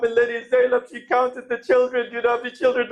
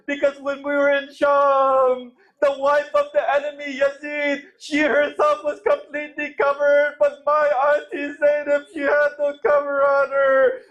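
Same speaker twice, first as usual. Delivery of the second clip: mournful lament sermon. Real, not acted. Preacher recounting the caravan's arrival in Sham to mourners, mournful lament. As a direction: recount the tragedy as a sustained lament.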